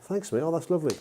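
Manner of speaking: playing the grateful friend, pretending to love the cheap gift; mock gratitude. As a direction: gush over a cheap gift, faking it. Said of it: "we'll act it out now".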